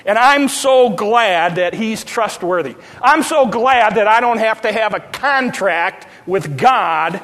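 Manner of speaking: rising preacher cadence, pushed hard on each phrase; fervent preaching. Acted. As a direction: drive the sermon home. Builds sermon at full force.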